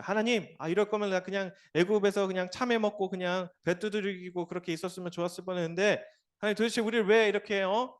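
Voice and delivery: whiny complaint, partly rushed; hammed-up grumbling to God; mock grumbling. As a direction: play the griping crowd in the desert. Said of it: "뭐 이렇게 막 원망했다고".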